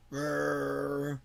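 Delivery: low rumbling noise; imitated rumble. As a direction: mimic a rumble with the mouth. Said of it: "It's, it's really like".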